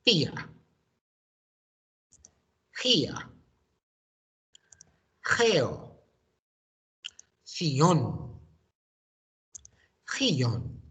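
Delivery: each word called out loud and clear, one by one; Fia, Gia, Geo, Ción, Guion modelled loudly for the class to repeat; model pronunciation. Shown as a demonstration. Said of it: "my turn, your turn".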